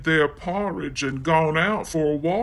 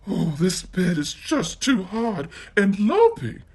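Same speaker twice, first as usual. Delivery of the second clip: put-on high-pitched girl grumbling; 5 semitones higher than usual.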